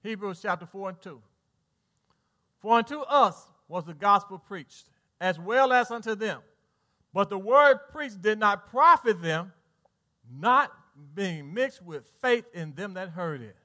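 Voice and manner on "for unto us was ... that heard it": solemn, slow reading of scripture. Acted. Preacher reading Hebrews to his church, slow and solemn. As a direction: lay out each word of the verse. Reads scripture slowly in sermon.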